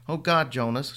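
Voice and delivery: screaming, crying. Acted. Wife crying out as her husband collapses, panicked. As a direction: cry his name in terror. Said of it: "she screamed, crying".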